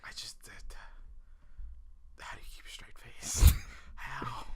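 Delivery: whispered, stunned wondering; hushed disbelief. Real, not acted. Baffled at actors keeping a straight face, hushed disbelief. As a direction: whisper it, lost for words.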